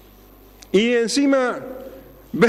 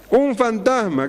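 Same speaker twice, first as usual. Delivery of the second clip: mock scared cry; 5 semitones higher, slower than usual. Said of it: "a los gritos desesperados".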